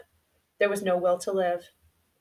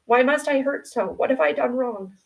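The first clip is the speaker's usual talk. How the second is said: higher, choked-up grieving questions; choking voice; 5 semitones higher than usual. Acted. Boy asking his mother why his dogs died, choking up. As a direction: voice catching as he asks why. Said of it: "In a choking voice".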